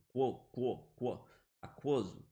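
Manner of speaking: "quo" repeated, then "aquoso" with the U sounded; syllable drill. Shown as a demonstration. Teacher drilling the syllable for students. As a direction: drill the syllable "quo" before the whole word. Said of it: "Eu tenho que ler aquoso".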